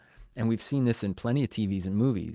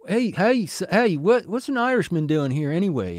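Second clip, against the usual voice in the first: high, loud indignant heckle; mock outraged demand, pitched high; acted challenge; 8 semitones higher, 5 dB louder than usual. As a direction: call out like an offended busybody. Acting out nobody's challenge.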